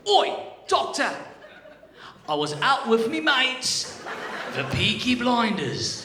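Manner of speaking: put-on loud, high, slow British accent. Patient out with his mates, British accent. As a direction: belt it out in a hammed-up British accent. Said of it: "This one is the, the right one".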